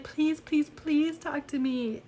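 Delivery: high, imploring mock plea; pleading gargoyle. Little gargoyle begging the girl for company, high mock pleading.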